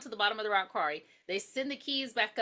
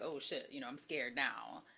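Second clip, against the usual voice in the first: scared; 9 semitones lower, 11 dB quieter than usual. Retold or imitated. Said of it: "Rhonda is like".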